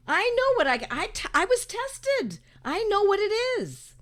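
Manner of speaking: mimicking someone proudly reporting a diagnosis; mock self-important. Worrier announcing their Delta strain test result, mock self-important. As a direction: play up the big announcement, mockingly.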